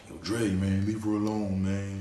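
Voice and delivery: lightly voiced impression of teammates warning a friend; Charles Barkley. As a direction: loosely slip into a Barkley-like voice. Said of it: "I sound like Charles Barkley and shit".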